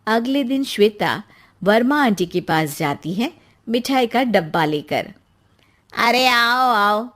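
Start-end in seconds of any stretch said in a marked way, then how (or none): 5.9-7.1 slow, drawn-out aunty greeting; a hint of a sweet nosy aunty; welcoming aunty. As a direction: slowly welcome the girl in as the aunty.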